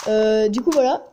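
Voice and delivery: talking through a runny nose; sniffling. Real, not acted. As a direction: sniffle between words. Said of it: "je renifle".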